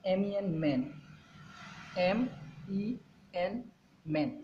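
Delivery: letters stretched out very slowly; slow sounding out. Shown as a demonstration. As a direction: draw out the spelling for children. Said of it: "इसको मैं एक बार करके बताता हूँ".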